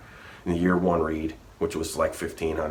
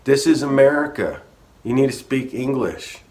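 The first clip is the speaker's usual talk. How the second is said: higher, louder mock of an angry bigot; 8 semitones higher, 7 dB louder than usual. Dumb coworker on the radio demanding English, mocked loud and high. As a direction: bark it like a loudmouth on the radio. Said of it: "get on there and say".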